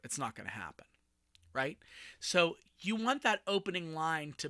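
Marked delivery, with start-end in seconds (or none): 0.0-0.9 retold mom's words. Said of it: "looked at me and said".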